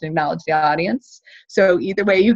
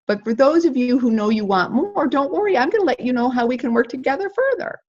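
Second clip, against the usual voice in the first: reassuring; 6 semitones higher than usual. Shown as a demonstration. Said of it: "And you say".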